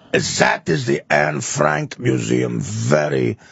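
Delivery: a hint of a solemn Dutch guide droning on; mock somber tour guide. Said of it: "And he goes".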